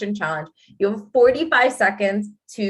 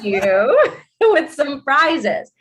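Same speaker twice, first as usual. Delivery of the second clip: laughing; 5 semitones higher, slower than usual. Real, not acted. Teasing guest with prizes.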